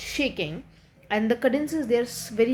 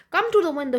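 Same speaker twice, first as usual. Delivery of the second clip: poem call; 7 semitones higher, 5 dB louder, faster than usual. Shown as a demonstration.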